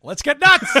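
loud, high party cheer; excited. Pretend. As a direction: whoop it up before the gulp. Toast before drinking tincture.

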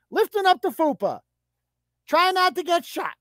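lightly voiced mock panic; mock frantic Monica. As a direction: narrate it like a breathless run. Mock dodging bullets scene.

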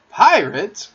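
loud, high, thrilled exclamation; excited cry. A narrator's reading. John hears of pirates from Peter, excited cry. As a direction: burst out at the thrilling news. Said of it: "cried John".

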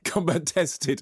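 slow, exaggerated London accent; imitating a put-on London accent; mock London accent. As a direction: draw it out in a mocking London accent. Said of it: "not a bad London accent".

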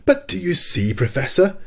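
exasperated, pitch jumping up; irascible. A narrator's reading. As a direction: protest hotly to the professor. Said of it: "replied our irascible companion".

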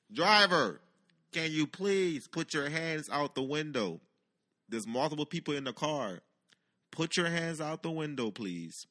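loud, slow, projected trooper's command; booming official order to a stopped car; loudspeaker announcement. Retold or imitated. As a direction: imitate a police loudspeaker, words drawn out. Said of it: "gets on a loudspeaker".

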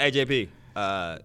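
low impression of a friend; Keith. Imitating a friend greeting his roommate, low voice. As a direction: drop into a low, laid-back imitation. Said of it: "this is my Keith voice also".

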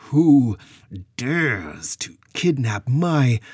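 booming, slow, regal challenge; commanding shout. Acted. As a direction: thunder it out like an angry queen. Goddess confronts kidnappers.

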